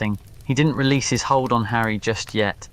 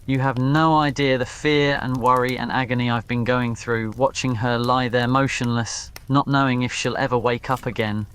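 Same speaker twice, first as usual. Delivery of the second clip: anguished anger. Acted. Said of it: "Draco lost control of his emotions".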